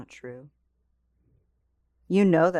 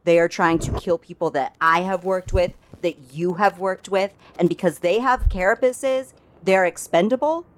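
heated. Acted. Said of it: "you guys hear her get excited".

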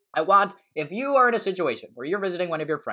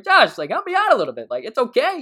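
mock pleading; 9 semitones higher, 5 dB louder than usual. Pleading to Josh, high, loud.

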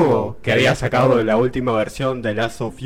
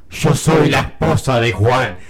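ghostly reveal shout. Acted.

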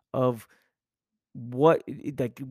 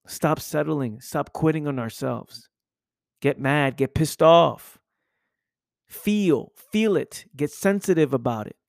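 loud coach-style call to anger; fired-up shout; 5 dB louder than usual. Real, not acted. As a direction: rouse them, hit it hard. Fired-up motivational push.

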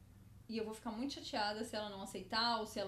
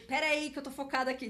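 busy brain character; 4 semitones higher, 6 dB louder than usual. Acted. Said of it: "é um cérebro com uma lupa olhando".

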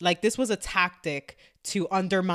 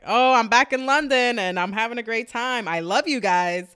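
performed social-media cheer; mock upbeat PR; 4 semitones higher, 5 dB louder than usual. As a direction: gush it like a promotional post. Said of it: "positive London P R".

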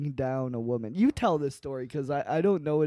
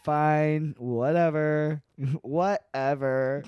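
reluctant sigh; much slower than usual. Retold or imitated. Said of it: "She's like".

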